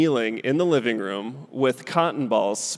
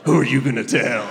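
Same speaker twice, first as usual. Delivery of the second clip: put-on defiant kid; 6 dB louder than usual. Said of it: "be like".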